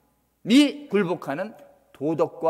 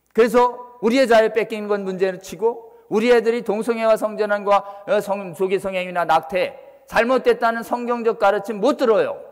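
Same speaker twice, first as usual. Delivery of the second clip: loud, higher-pitched warning from the pulpit; impassioned preaching; 5 semitones higher, 5 dB louder than usual. Real, not acted. Preacher warning congregation that children will lose biblical teaching, impassioned preaching. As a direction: preach it with raised, urgent force.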